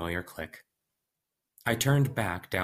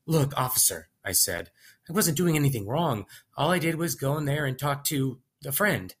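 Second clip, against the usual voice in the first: nervous lying; 6 semitones higher than usual. Acted. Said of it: "I continued the lie".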